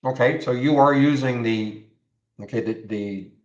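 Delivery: talking around something in mouth; words blocked by something in mouth; mouth full. Real, not acted. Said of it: "I got something in my mouth".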